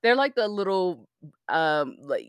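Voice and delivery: slight slur from aligners; slushy sh for s; lisp. Real, not acted. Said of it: "I just sound like I'm slurring".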